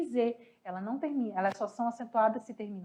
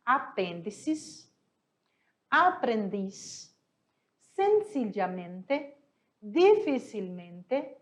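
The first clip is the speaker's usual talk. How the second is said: each Spanish word read out slowly; slower than usual. Shown as a demonstration. Teacher reading the word list slowly to students. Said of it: "classifica corretamente as palavras abaixo".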